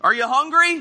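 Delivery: mild mock yell across the water. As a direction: call out to friends in a boat. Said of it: "he yells out".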